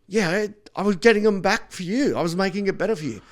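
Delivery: high, loud, earnest self-defence; mock protesting. Comic defending himself to the next act, high loud protest.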